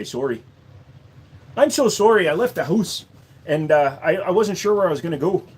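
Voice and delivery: apologetic Canadian accent, rising and falling; a light, over-polite Canadian accent. Shown as a demonstration. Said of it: "how about a Canadian accent?".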